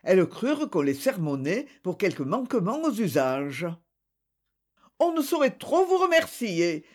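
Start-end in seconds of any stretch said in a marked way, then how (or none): 5.0-6.9 hurried, much higher servant voice. A narrator's reading. Céline answering the judge, hurried and high. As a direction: blurt it out flustered and high. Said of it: "dit Céline précipitamment".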